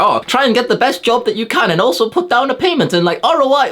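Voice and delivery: high, sneering parody of conventional advice; high, put-on voice; mocking average guy. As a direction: ridicule the ninety-nine percenter.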